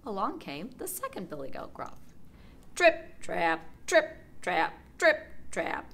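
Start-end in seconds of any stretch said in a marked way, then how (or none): 2.8-5.9 heavier stomping rhythm; louder trip trap. A narrator's reading. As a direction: tramp it out heavier. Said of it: "made more noise".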